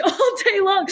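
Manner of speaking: breaking into a high laugh on all day long. Real, not acted. Founder telling interviewer her story, laughing. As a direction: laugh it out, pitch jumping up.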